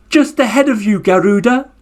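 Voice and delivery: put-on high turtle reply led for the kids; turtle line for children to repeat. Shown as a demonstration. Storyteller leading the children in the turtle's reply, high. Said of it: "Can you say that with me?".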